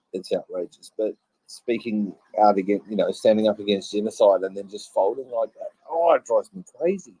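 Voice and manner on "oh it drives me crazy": exasperated outburst. Real, not acted. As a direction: voice jumps high in real frustration. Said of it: "this drives me nuts".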